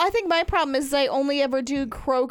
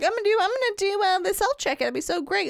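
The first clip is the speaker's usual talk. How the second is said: mock excited; 7 semitones higher than usual. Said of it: "I'm like".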